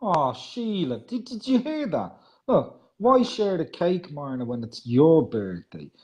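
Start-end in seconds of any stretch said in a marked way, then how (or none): 3.0-5.9 "your" picked out with emphasis; stress on YOUR. Retold or imitated. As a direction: slowly read out, leaning on "your". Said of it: "it's emphasized as your birthday".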